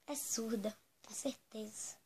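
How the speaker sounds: hushed gossip, behind her back; whispered aside. Acted. Whispering to viewers that the maid must be deaf.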